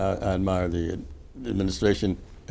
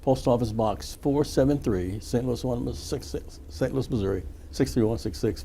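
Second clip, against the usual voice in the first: slower, softer read-out of the address; slower repeat; 3 semitones higher, 3 dB quieter, slower than usual. Real, not acted. Radio host repeating the donation address for listeners, slower. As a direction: repeat the address slowly, in separate chunks.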